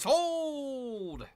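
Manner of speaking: high, loud auctioneer's "Sold!"; booming mock auctioneer; auctioneer call. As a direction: bang the gavel with your voice. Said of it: "like an auctioneer".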